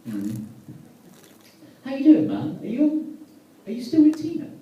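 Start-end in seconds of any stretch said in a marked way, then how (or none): 1.9-4.5 excited greeting. Retold or imitated. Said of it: "and I said".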